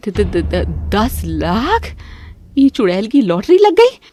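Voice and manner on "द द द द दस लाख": stuttering, slow stunned gasp; stammering shock. Acted. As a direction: choke on the number. Mother-in-law stunned by news. (हकलाते हुए हैरानी)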